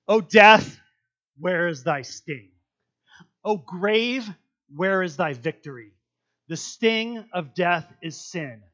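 slow, lofty poetic recitation; reciting Corinthians in King James style; poetic King James reading. Acted. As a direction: savour the old words slowly. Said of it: "going King James Version on this 'cause it's prettier".

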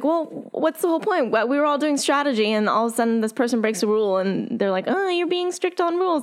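annoyed. Retold or imitated. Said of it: "it's like".

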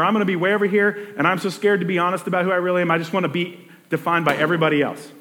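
quick, anxious mock confession; lightly voiced nervous person wanting approval; scared people-pleaser. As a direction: rush it out like a frightened pleaser.

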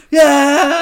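loud, high crowd cheer; big, high-pitched "yeah"; cheering kids. Retold or imitated. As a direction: whoop it like a cheering classroom. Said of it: "All these kids are like".

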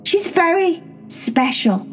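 slow, deliberate words for strangers; grand slow announcement; slow formal introduction. Acted. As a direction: speak slowly so the aliens understand. Introducing herself to alien cats.

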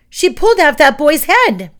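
very high, loud panicked scream; full-out hysterical shrieking; horrified shriek. A narrator's reading. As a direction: scream it in terror. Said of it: "the witch shrieked".

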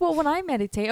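high-pitched voice for the patient; imitated patient. Patient's reply voiced in story.

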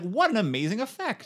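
high, loud gushing; hammed-up delight at a stage trick; mock amazement. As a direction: gush like a dazzled theatregoer. Mocking the oblivious audience.

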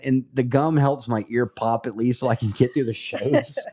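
talking while chewing gum. Real, not acted. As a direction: chew gum as you talk. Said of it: "I'm chewing gum right now".

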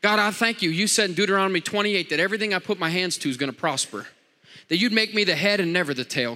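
preacher models a confident business prayer; prayer demo. Shown as a demonstration. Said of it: "Start saying".

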